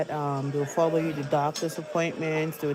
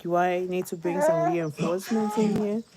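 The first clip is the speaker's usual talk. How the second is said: imitating concerned nurse; 4 semitones higher than usual. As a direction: ask like an anxious nurse. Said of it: "she said".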